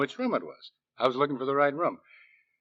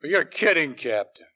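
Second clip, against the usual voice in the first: alarmed protest; 7 semitones higher, 7 dB louder than usual. Acted. Suspect protests arrest.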